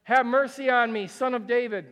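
a persistent mother pleading loudly; loud plea. Acted. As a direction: call out again, undeterred. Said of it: "she hits the ball to his court".

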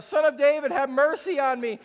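high, loud desperate cry; a mother calling after Jesus, cried out high and loud. Acted. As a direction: call after him in desperation. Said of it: "she cries out".

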